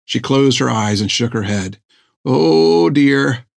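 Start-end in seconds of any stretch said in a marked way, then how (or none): 2.2-3.5 fussy doctor voice. Acted. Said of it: "repeated Thiggum".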